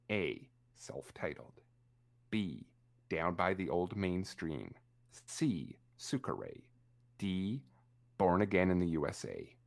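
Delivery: slow monotone answer list. Shown as a demonstration. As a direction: read the options in a monotone voice. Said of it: "say all the answers in a monotone voice".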